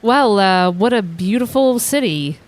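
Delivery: slow, halting false praise; drawn-out sarcastic compliment. Acted. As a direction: pretend to admire it with obvious doubt. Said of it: "I caught your sarcasm there".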